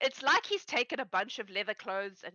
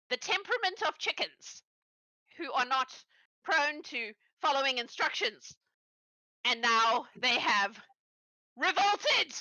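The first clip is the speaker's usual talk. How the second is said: Styx the goblin inventor; 3 semitones higher than usual. Acted. Styx explaining his battle chickens to Angeline, excitedly. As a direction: proudly explain the brainwave. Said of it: "And Styx goes".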